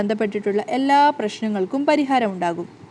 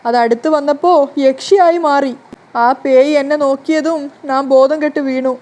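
scared; 3 semitones higher, 6 dB louder than usual. Acted. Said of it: "വരാൻ വല്ലാതെ പേടിക്കുന്നുണ്ടായിരുന്നു".

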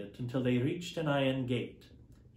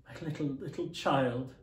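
grieving father's cry; crying out in grief. Acted. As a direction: let the grief break through on child. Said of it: "cried Bob".

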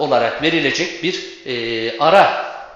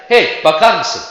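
loud "Hey, bakar mısın?" like hailing someone; calling out; 3 semitones higher, 7 dB louder than usual. Shown as a demonstration. Teacher acting out calling someone across the street. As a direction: call out to a passerby. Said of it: "vurgu burada nereye kayıyor? İlk heceye".

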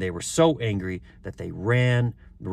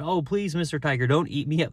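put-on higher-pitched pleading boy; pleading Sambo; 6 semitones higher than usual. A narrator's reading. Boy begging another tiger to spare him, high plea.

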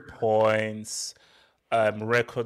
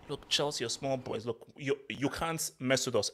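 imitating an arrogant put-down, kept quiet; a softly voiced, mildly cocky brush-off; mock arrogance; 7 dB quieter than usual. Fan mimics his rival's arrogant voice dismissing Chelsea, mock-arrogant. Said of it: "'cause it's way too arrogant".

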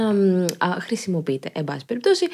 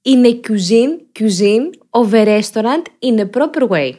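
mock politician's English, loud and emphatic; exaggerated halting Greek-English parody; Adonis Georgiadis; 3 semitones higher, 4 dB louder, slower than usual. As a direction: repeat it louder, phrase by phrase, with rising mock emphasis. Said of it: "αναφέρεται ο Άδωνης ο Γεωργιάδης".

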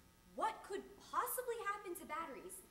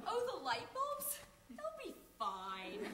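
careless packagers; 3 semitones higher, slower than usual. Acted. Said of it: "What are those packagers thinking?".

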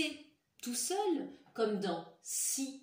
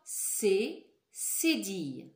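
slow, louder C cédille; slow, louder repeat; 5 dB louder, much slower than usual. Shown as a demonstration. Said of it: "Encore une fois".

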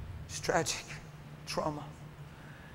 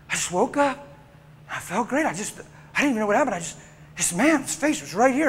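higher-pitched, stumbling bewilderment; raised, wondering voice; dazed survivor; 5 semitones higher than usual. Acted. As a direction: play someone just woken up, puzzled. Acts the revived man's account.

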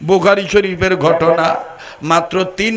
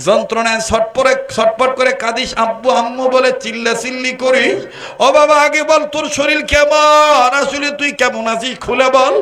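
pleading, building to cry; 5 semitones higher than usual. Acted.

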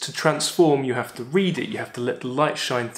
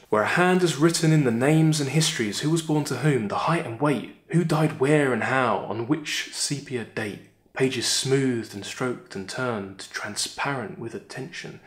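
poem reading. Acted. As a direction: let the lines settle and fade. Reads the poem aloud.

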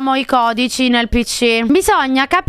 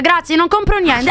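brisk refusal; 4 semitones higher than usual. Real, not acted. Streamer refusing an unwanted visitor, brisk refusal. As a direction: run the words together, slightly high. Refusal before a broken-up repeat.

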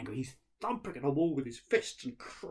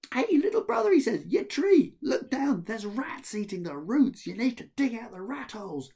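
loud, much higher call; 12 semitones higher, 10 dB louder than usual. Acted. Ahmed calling out to the little brother, loud and high. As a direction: yell the warning down to him.

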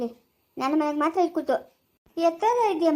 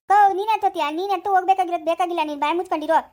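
louder, sharp rebuke; angry scolding; 5 dB louder, faster than usual. Acted. Relative scolding the woman wanting the baby, angry and louder. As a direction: shut her up with force.

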